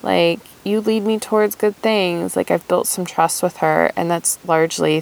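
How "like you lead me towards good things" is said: put-on higher, pleasantly surprised childlike voice; a kid realizing someone cares; lightly voiced happy inner child; delighted inner child. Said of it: "is like".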